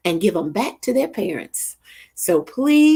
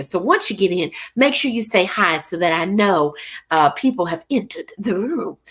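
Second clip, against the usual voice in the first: usual speaking voice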